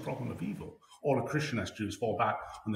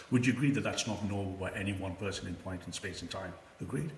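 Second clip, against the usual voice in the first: echoey voice in a big room; speaking into a hollow, echoey space; big hall echo. Real, not acted. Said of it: "you sound very echoey".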